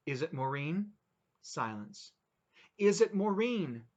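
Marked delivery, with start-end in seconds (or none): 2.8-3.9 shouted louder and higher, slower; panicked shout at her husband on the phone. Acted. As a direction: yell it down the phone line. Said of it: "Don't shout".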